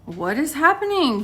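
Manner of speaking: mildly acted scared question; terrified. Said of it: "it was kinda terrifying".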